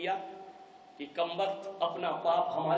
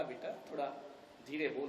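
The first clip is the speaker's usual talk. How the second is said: hushed plea; 5 semitones lower, 13 dB quieter, faster than usual. Acted. Father hushes his daughter.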